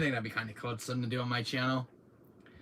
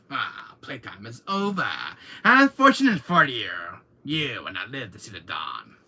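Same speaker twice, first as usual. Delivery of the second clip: villain threat; 7 dB louder than usual. Retold or imitated. Villain lines in Wesker bit.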